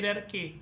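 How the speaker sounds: "hierarchy" said with a hard K, "-ar-kee"; correct pronunciation. Shown as a demonstration. Teacher showing students how hierarchy is pronounced, correct pronunciation. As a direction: say "hierarchy" ending in a K sound. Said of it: "ये जो pronunciation है वो थोड़ा अलग है".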